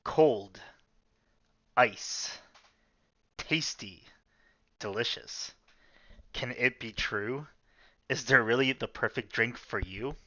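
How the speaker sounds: ad read. Pretend. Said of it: "now I can do my ad read".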